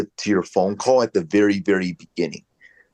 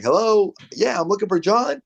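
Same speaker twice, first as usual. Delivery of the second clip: higher, matched sing-song greeting; mirroring the prospect; 10 semitones higher than usual. Shown as a demonstration. Coach demoing mirroring a prospect, higher than his normal voice. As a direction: echo the caller's tune back to them. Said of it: "that's not how I normally talk".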